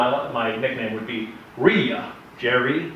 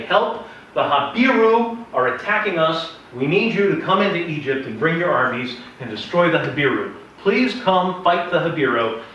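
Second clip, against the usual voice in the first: pleading; 4 semitones higher, 4 dB louder than usual. Retold or imitated. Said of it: "they basically say".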